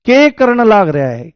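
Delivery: के करण लाग रहा है in broad Haryanvi, के stressed; the right, rustic Haryanvi way; desi Haryanvi accent. Shown as a demonstration. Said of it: "बिल्कुल देसी एक्सेंट में ही होना चाहिए".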